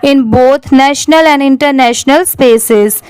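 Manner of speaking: slow, careful read-aloud of an English passage; measured reading for students; slow paragraph reading. Shown as a demonstration. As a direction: read it out slowly like a model text for learners.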